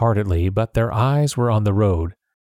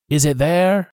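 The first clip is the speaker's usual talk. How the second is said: higher roaring demand; roared; 7 semitones higher than usual. A narrator's reading. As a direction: roar it at the men above. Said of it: "Pew roared".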